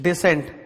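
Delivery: डिसेंट with a falling end; word shown clearly. Shown as a demonstration. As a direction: present डिसेंट as the second of two, closing downward. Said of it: "और दूसरा क्या बोल रहा हूं?".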